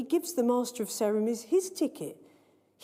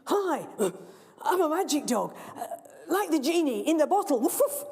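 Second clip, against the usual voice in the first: lightly voiced dog; 4 semitones higher than usual. Dog bluffing the children.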